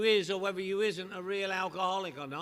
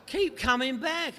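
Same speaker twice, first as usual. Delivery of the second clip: repeating it louder and slower to a deaf newcomer; 6 semitones higher, 7 dB louder, slower than usual. Retold or imitated. Greeter repeating louder and slower to the confused newcomer. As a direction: spell it out, louder and slow. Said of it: "He said".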